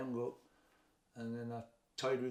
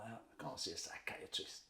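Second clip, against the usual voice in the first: low, soft, slow reply; reluctant murmur; 4 semitones lower, 6 dB quieter, slower than usual. Retold or imitated. Man balking at his friend's advice to see someone, low and reluctant. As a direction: let it sink almost voiceless, unwilling.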